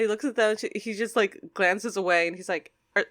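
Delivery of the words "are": put-on high-pitched questioning kid voice. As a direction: ask it high, as a sibling who has caught something. Acting out a child's question.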